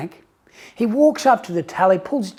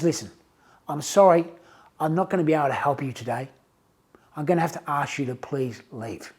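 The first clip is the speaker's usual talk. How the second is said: softer, controlled teller asking him to leave; calm but firm; 5 semitones lower, 5 dB quieter, faster than usual. Retold or imitated. Frustrated teller asking the customer to leave, a touch of forced calm. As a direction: hold your temper and show him out. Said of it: "but he's keeping calm".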